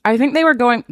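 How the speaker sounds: talking while crunching; words through a crunchy bite; crunching chips. Real, not acted. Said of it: "sorry, I'm crunching".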